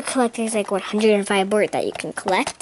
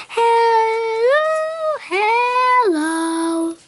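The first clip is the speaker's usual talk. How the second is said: too squeaky bird voice; 12 semitones higher, much slower than usual. Pretend. Kid's toy bird talking in an overdone squeak. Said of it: "make her talk normal now".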